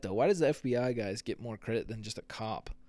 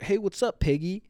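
taunting; 8 semitones higher, 5 dB louder than usual. Retold or imitated. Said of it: "you're like".

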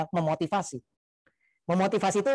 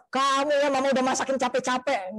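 imitating an offended, nagging mom, high-pitched; mock parental grumble, pitched well up; grumbling mother; 6 semitones higher than usual. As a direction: play the mother scolding an ungrateful child. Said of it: "orang tua begitu anak jujur ngomel".

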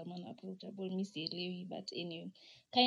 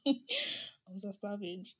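laughing repeat; slower than usual. Real, not acted.

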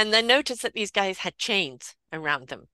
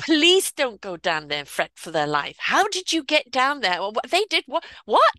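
disbelieving cop; 3 semitones higher, 3 dB louder than usual. Retold or imitated. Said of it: "He said".

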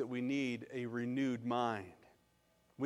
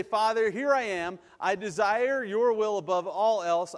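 raised, emphatic plea to God; earnest prayer; 5 semitones higher, 6 dB louder than usual. Acted. Preacher models surrendering to God, praying emphatically. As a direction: pray it out boldly, stretching the words. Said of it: "you can come to God and you can say".

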